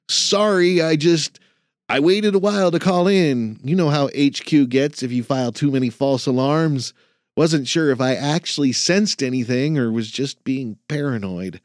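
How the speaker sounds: lightly voiced anxious student; flustered young man. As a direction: stumble through the excuse like a nervous trainee. Jason apologizing nervously.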